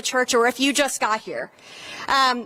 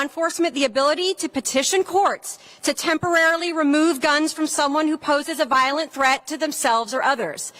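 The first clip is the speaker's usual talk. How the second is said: rally speech; 2 semitones higher than usual. Acted. Speaker at a gun-safety rally.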